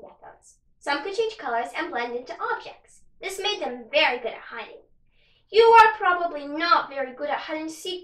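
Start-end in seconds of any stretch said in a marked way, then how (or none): 5.5-8.0 taunting gecko voice. Acted.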